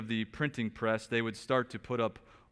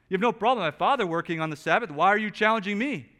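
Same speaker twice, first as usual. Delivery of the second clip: higher, louder, fast challenge; Jesus challenging; 9 semitones higher, 9 dB louder, faster than usual. Acted. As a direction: confront the accusers in Jesus' voice. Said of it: "That's why he says".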